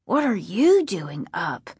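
sleepy mumbled echo; drowsy, barely awake; half asleep. Acted. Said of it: "half asleep".

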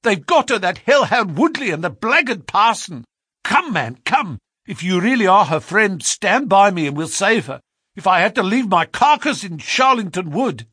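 high loud frantic plea; frantic urgency. A narrator's reading. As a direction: urge them on frantically. Stranger frantic pleading.

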